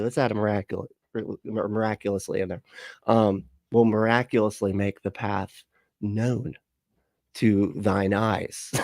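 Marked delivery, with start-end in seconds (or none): 3.7-8.7 mock prophet. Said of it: "I can prophecy better than she can".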